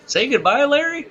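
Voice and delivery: very high, loud hammed-up goodbye; laughing, high-pitched imitation of signing off; frantic mock sign-off. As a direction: shout a squeaky farewell, breaking into laughter.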